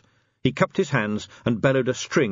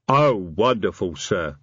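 troll voice, pleased with the result; happy troll sergeant; slower than usual. A narrator's reading. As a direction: report happily as a troll. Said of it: "said Detritus happily".

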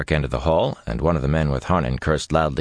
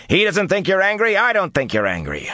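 placating. Acted. Placating angry woman.

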